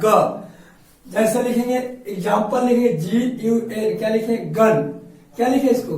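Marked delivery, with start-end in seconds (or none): 0.0-0.4 ग said alone as "guh"; teacher's answer ग, a hard G; hard G sound. Shown as a demonstration. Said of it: "क्या होता है". 4.4-4.8 गन opening on a hard "guh". Shown as a demonstration. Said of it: "जी का pronunciation ग होता है".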